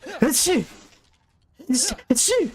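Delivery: loud high sneezes, twice; real sneeze. Real, not acted. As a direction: sneeze hard, then sneeze again. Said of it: "I feel like I'm about to sneeze".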